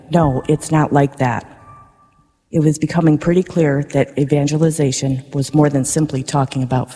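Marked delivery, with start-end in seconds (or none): 0.1-1.4 emphatic. Retold or imitated. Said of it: "saying to them emphatically".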